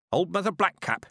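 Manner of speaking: put-on brisk, approving old woman; old witch praising a girl's teacher. A narrator's reading. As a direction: give curt approval. Weatherwax approving.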